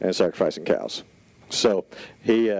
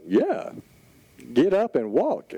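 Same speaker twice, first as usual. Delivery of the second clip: Paul eager; 5 semitones higher, slower than usual. Retold or imitated. Paul voiced telling man to walk.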